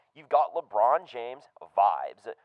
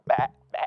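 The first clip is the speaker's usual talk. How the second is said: goat bleating; 3 semitones higher, 3 dB louder than usual. Acted. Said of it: "with your goat impression".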